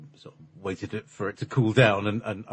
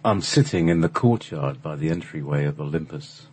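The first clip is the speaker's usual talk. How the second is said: lower, louder voice of Rodan; storyteller voice of Rodan, lower and louder; 5 semitones lower, 4 dB louder than usual. Acted. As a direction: Rodan looking back on a lost paradise, voice lowered and louder. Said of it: "Here's Rodan".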